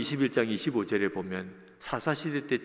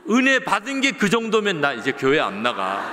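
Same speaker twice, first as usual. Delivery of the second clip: loud, higher, laughing through the words; laughing punchline; 4 semitones higher, 6 dB louder than usual. Retold or imitated. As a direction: laugh out the joke, louder and higher.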